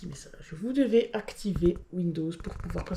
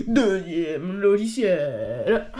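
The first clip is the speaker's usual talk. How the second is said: « Deuxième logiciel » traîné très lentement avec un rire; étire l'annonce en riant; annonce étirée en riant; 5 dB louder, much slower than usual. Real, not acted. (présente le deuxième logiciel, en riant et très lentement)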